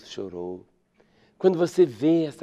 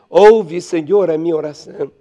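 heartfelt cry; 9 dB louder than usual. Acted. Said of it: "ele abre o coração e diz".

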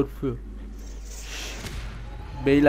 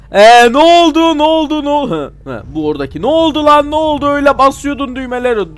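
confused shout; 10 semitones higher, 10 dB louder than usual. Real, not acted. Confused shouting at game partner.

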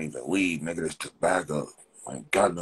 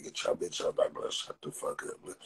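whispered aside; 8 dB quieter than usual. Real, not acted. Muttered insults aside.

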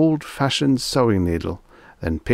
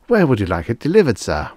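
higher, quick and polite clerk; eager salesman; 4 semitones higher, 4 dB louder, faster than usual. Acted. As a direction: fuss politely over the customer.

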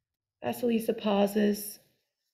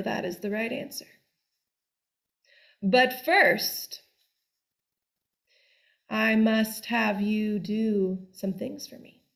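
bossy witch. Acted. Baba Yaga gives orders.

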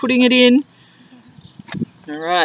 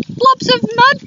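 laughing dingo; 13 semitones higher, 3 dB louder than usual. Acted. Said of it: "Dingo laughed".

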